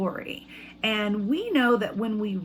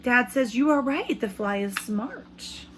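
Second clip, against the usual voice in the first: put-on reading to children. Teacher reads picture book aloud.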